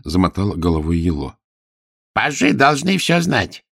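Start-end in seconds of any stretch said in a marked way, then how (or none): 2.1-3.6 put-on mildly grumpy, slower, higher old voice; a touch of disapproving scolding; displeased. Old courtier grumbles at the pages, mildly displeased. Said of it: "недовольно сказал старик".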